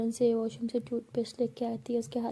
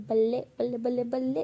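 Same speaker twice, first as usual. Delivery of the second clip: happy cheer. Shown as a demonstration. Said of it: "तो वो ऐसे बोलता है".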